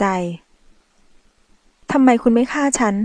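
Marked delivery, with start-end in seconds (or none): 1.9-2.9 trembling voice. Acted. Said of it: "เสียงสั่นเกิดจากการเสียเลือดมาก".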